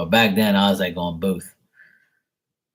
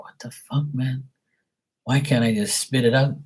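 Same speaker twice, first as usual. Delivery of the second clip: mildly exasperated; 4 semitones higher than usual. Retold or imitated. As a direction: grumble at yourself in a raised, held-back pitch. Voicing frustration at finding words.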